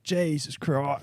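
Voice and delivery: slow, drawn-out Aussie oath; koala's Australian accent. Acted. Friend imagining a startled koala, slow Australian-accented oath. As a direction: curse slowly in a broad Australian accent. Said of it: "imagine a koala being like".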